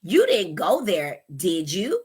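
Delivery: slow statement, then "did you" lifted as a question; leading tag question. Shown as a demonstration. Parent questioning a child, leading tag question. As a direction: pause before "did you" and raise it. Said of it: "if you add yes or no at the end, you're also leading".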